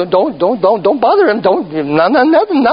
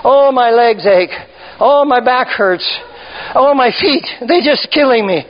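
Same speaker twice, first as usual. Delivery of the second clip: low, whiny poor-me moaning; mock self-pity; 3 semitones lower than usual. Preacher mimicking a self-pitying churchgoer, moaning low. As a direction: complain like a sorry martyr. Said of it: "poor me thing".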